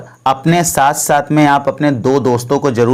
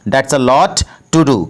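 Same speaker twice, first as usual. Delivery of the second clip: very slow, every word laid out for learners; slow, careful model sentence; slow teaching demo; much slower than usual. Shown as a demonstration. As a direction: spell it out slowly for the class. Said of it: "तो English में इसे बोलेंगे".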